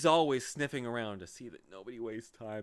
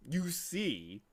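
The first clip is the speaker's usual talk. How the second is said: conciliatory; 6 semitones higher than usual. Acted. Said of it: "in a more conciliatory tone".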